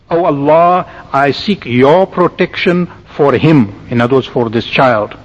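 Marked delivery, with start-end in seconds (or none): 0.1-3.9 slow, measured translation of a prayer; slow reading. Shown as a demonstration. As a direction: read the prayer out slowly, phrase by phrase. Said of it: "read it to you slowly".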